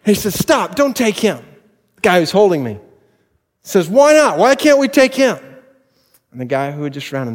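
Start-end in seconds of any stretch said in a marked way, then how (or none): 0.0-1.4 retells the shout through laughter, high and slow; chuckling as he repeats the rescue line; laughing while quoting. Retold or imitated. Preacher to congregation, laughing through the quote. 3.9-5.4 whiny protest, much higher and louder; mock indignant bully. Senior to rescuer, a mock indignant high whine.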